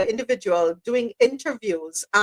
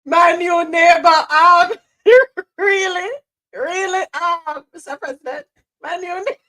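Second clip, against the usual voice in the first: incredulous laughing; 5 semitones higher, 6 dB louder than usual. Real, not acted. Mocking the president as neighbor.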